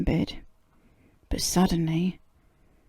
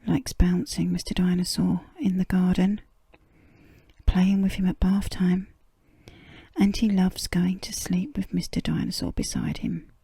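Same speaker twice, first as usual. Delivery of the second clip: whispered storytelling. A narrator's reading. Reader whispering a bedtime story to a sleepy listener, hushed. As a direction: breathe the words like a secret.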